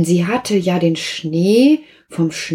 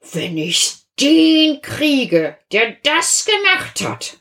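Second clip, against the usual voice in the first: mild hiss; 8 semitones higher, slower than usual. Acted. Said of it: "fauchte Rechtsanwalt Aktenstaub".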